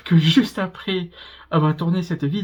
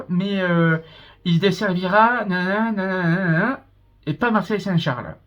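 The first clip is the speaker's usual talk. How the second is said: lightly mimicking a station tannoy voice; half-hearted imitation of the announcer reading stops; mock platform announcement; 3 semitones higher than usual. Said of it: "Et la dame, en fait, annonce".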